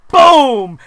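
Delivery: one loud, drawn-out blast; explosive boom. Acted. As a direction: punch it out like a mic drop. Acts out a mic drop.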